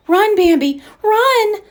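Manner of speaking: loud, high frantic shout; desperate cry. Acted. Mother warns Bambi of the hunters, frantic loud cry. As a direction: scream at him to flee. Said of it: "his mother cried".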